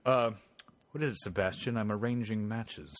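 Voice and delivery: imitating an understated comedy character; mildly hushed, mock-preoccupied sketch voice; Eddie Izzard. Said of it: "like that Eddie Izzard bit".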